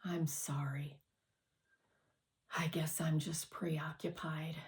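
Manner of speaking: put-on boy apologizing, ashamed and subdued; sighing apology. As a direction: let it out on a tired sigh. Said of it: "and sighed".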